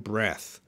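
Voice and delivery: "breath" with short e; "breath" ending on a soft th; noun pronunciation. Shown as a demonstration. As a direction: say "breath" softly, to rhyme with death. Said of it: "know how to pronounce these words".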